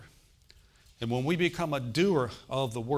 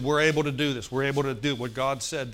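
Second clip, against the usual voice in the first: bold declaration; 4 dB louder than usual. Retold or imitated. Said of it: "And they said".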